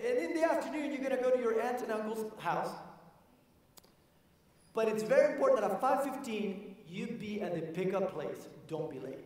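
stern elder setting the rules; grandfather voice. Retold or imitated. Gandhi tells grandson to be on time, grandfatherly voice.

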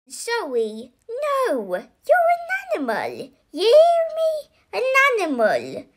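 high, furious stepmother shriek; uncontrollably angry, shrieked up high; angry scream. A narrator's reading. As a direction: build to a loud, high scream. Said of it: "screamed the woman".

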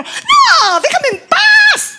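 high, slow shrieked refusal; hammed-up outraged yell; angry shriek. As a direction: shriek it like a furious girlfriend. Girlfriend shrieks, high shout.

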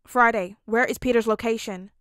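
loud, urgent demand. A narrator's reading. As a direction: bark the order while flying. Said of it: "Tony demanded".

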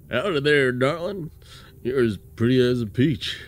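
a hint of a Southern charmer; mild Southern accent, sweet-talking; southern cowboy accent. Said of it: "his eight-bit voice had a southern accent".

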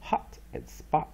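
"Hot" and "spot" both stressed, said slowly; teacher shows two stresses; double stress demo. Shown as a demonstration. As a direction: give "Hot" and "spot" equal weight. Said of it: "所以有双重音".

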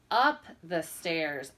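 "up" stressed and drawn out. Shown as a demonstration. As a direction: lean on "up" for the kids. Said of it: "Up begins with U".

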